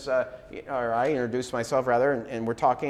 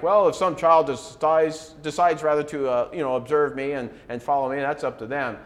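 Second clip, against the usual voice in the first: mock passive shrug, louder at the start; 4 dB louder than usual. Preacher voicing a hands-off mentor, passive. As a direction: play a hands-off mentor leaving it up to them. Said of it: "Don't just be a mentor passively".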